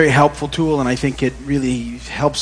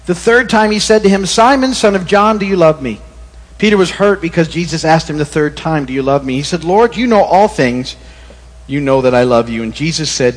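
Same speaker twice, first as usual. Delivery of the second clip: scripture reading. Acted. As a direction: read the Gospel aloud to the congregation. Reads scripture aloud.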